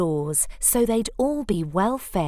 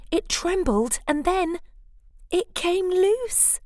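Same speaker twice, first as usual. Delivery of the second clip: building suspense; 10 semitones higher than usual. A narrator's reading. Suspense as cone falls.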